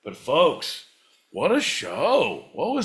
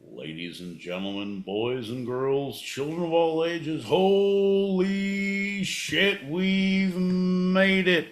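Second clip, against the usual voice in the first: announcer; 3 semitones higher, slower than usual. Pretend. Mock showman opening the show.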